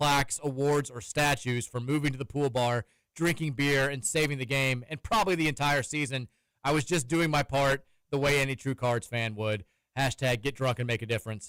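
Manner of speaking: plain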